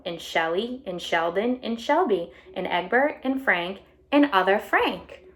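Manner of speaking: bright storybook read-aloud voice; animated picture book reading; reading to children. A narrator's reading. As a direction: read it out to a class of kids. Reading the egg's first-person story.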